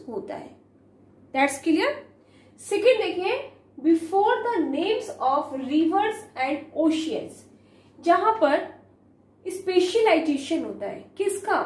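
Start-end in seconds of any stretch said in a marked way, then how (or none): 3.8-7.4 slow dictation. Shown as a demonstration. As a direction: read the rule word by word. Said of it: "slow dictated rule".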